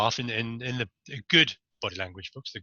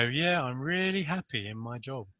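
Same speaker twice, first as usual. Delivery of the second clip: unconvincing yes; 5 dB quieter than usual. Retold or imitated. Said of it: "they go".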